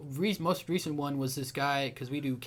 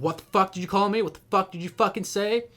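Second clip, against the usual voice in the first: loud, higher imitated roar; angry yell; 6 semitones higher, 8 dB louder than usual. Truck driver yelling at the boys, loud angry roar. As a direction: bellow it like a raging driver.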